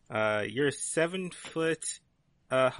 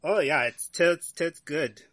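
put-on British accent; 3 semitones higher, 6 dB louder than usual. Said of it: "I love your new accent".

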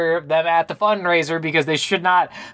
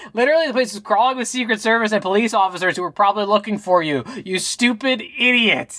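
high-pitched exasperated rant at a dumb plan; 5 semitones higher than usual. Real, not acted. Podcaster rants at the movie heroine, high exasperated rant. Ranting at the character.

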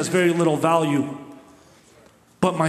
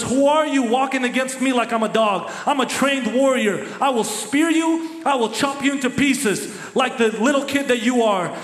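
higher, taunting giant's boast, peaking on spear you; mocking Goliath; 6 semitones higher than usual. Goliath taunts young David before the fight, mocking and raised. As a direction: sneer down at a little kid. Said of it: "Goliath mocks him and says".

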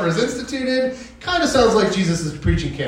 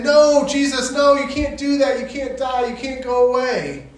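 much higher, anxious protest; pleading disciples; 7 semitones higher than usual. Retold or imitated. The disciples protesting Jesus' death, high and pleading. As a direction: beg him not to go. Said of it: "they're all saying".

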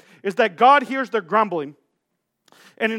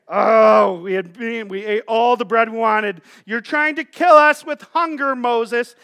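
lightly voiced whiny teenager, loud opening groan; a hint of melodramatic teen grievance; teenager complaining; 4 dB louder than usual. Preacher imitating Israelites acting like teenagers, mock complaining. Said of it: "they act like teenagers".

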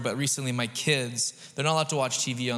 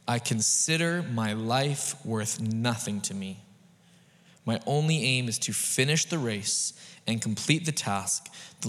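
slow, weighty scripture reading; solemn reading; 3 semitones lower than usual. Shown as a demonstration. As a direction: read it slow, letting each word land.

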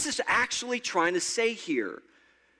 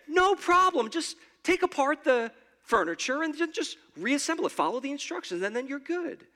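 breezy no-problem tone; 5 semitones higher than usual. Retold or imitated. Preacher mimicking an easy way out, breezy. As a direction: toss it off like it's nothing. Pastor voices an easy, casual fix.

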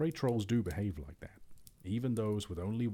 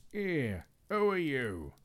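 high, loud squeak of a talking purse; 7 semitones higher, 4 dB louder, much slower than usual. Acted. Troll's purse squeaks at the thief, high and loud. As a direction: squeal it out like a startled little purse. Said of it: "it squeaked".

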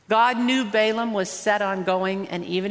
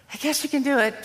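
reluctant permission; 6 semitones higher, faster than usual. Retold or imitated. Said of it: "God just says".

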